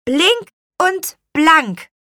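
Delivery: slow, high magic command; calling a spell. A narrator's reading. Witch retries the cleaning spell, slow high call. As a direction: call each word out high and separately. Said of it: "rief sie".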